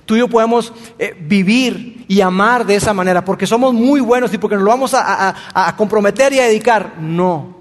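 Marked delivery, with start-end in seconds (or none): 3.2-7.0 laughing irony. Pretend. Ironic claim, laughing at it.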